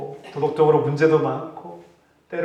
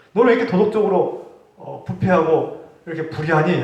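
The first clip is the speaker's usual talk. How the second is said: mock interrogation; 3 dB louder than usual. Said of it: "따지지도 않으셨어요".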